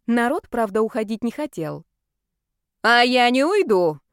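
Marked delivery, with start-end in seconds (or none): 2.8-4.0 loud, higher, slow defiant yell; yelling refusal. Acted. Stubborn woman yelling at the administrator she won't leave. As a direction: dig in and yell it out. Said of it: "завопила".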